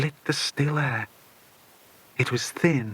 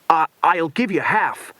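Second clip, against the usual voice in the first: stammering, louder bribe; desperate; 4 semitones higher, 4 dB louder than usual. A narrator's reading. Cornered villain bribing Bill, desperately stammering. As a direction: plead in desperation, tripping on the start. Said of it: "Slade said desperately".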